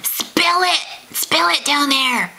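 high conspiratorial whisper; playful whisper. Pretend. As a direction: whisper it like juicy gossip. Begging viewers for gossip.

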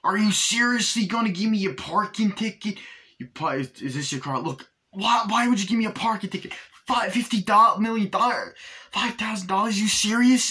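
high, loud, fast outraged ranting at a parking cop; hammed-up outraged protest over a ticket; indignant rant. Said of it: "Danny DeVito comes out, it's like".

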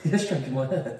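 laughing. Real, not acted. Man teasing partner stroking his hair, laughing. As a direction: say it through a laugh.

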